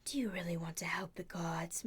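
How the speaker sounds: breathy whispered temptation; coaxing Medusa. A narrator's reading. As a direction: whisper it like a seductive villainess. Medusa coaxes Percy.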